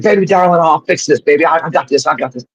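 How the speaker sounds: high-pitched impression of a wheedling manager; Jimmy Hart. Manager promising to fix the feud, high-pitched impression.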